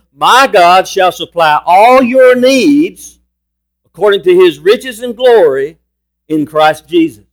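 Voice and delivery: slow, weighty verse delivery; proclaimed scripture reading. Real, not acted. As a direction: stretch out each phrase with conviction. Reads scripture with force.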